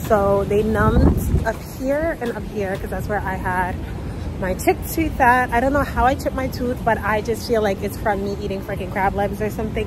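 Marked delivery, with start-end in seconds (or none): 0.1-5.5 numb mouth. Real, not acted. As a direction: talk like your mouth is numb from the dentist. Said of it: "I always talk weird coming out of the dentist because".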